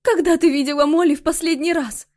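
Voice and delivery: high, loud, shaking question; mother asking when Molly was last seen, shaking; trembling voice. A narrator's reading. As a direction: ask with a trembling voice. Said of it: "спросила дрожащим голосом".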